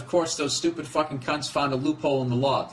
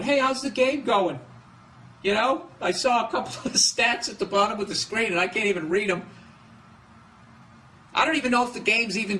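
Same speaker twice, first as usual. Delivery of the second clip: clueless gambler on phone; 7 semitones higher than usual. Retold or imitated. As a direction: play a confused bettor calling in from out of state. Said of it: "calling somebody else up going".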